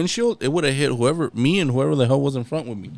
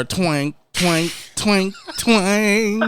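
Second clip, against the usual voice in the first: imitated guitar twang; 4 semitones higher, much slower than usual. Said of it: "He gonna bring out his guitar".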